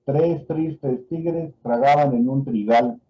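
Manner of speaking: "Tres tristes tigres tragaban en un trigal" said slowly, every word spelled out; slow dictation. Shown as a demonstration. Doctor dictating the tongue twister to a patient, slow and careful. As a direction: read it slowly for the patient to repeat. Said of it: "Repite la siguiente frase".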